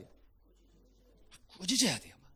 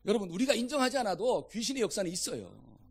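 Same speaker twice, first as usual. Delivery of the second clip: usual speaking voice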